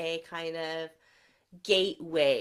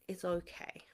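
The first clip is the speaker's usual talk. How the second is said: whisper; 7 dB quieter than usual. Real, not acted. Reassuring children, soft aside.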